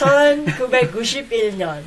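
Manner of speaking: Korean year said fast through a laugh; laughing demo. Shown as a demonstration. Teacher laughing through the Korean year for the co-host. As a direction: rattle off the year while laughing. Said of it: "how do you say nineteen ninety-one".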